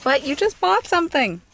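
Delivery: high-pitched imitation of a complainer; mock nagging critic. Imagined critic objecting to a new purchase, mock nagging.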